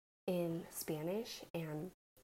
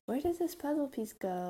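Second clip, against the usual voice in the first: put-on coaching a child; 8 semitones higher, 3 dB louder than usual. Shown as a demonstration. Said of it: "Tell 'em".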